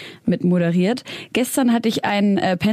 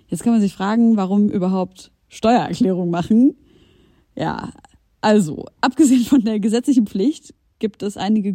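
ad read. Acted. Sponsored Taxfix ad read.

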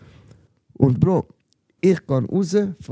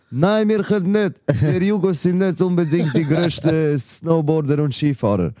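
mock-proud defiance, voice pitched up; cheeky comeback to the teasing classmates, pitched up; defiant retort; 4 semitones higher than usual. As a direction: throw it back at them, half joking. Defiant reply to mocking classmates.

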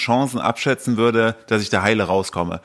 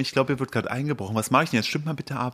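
soft hushed influencer; clickbait video narrator; 2 semitones higher, 6 dB quieter than usual. Pretend. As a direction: whisper to followers during a break-in. Mock Instagram story.

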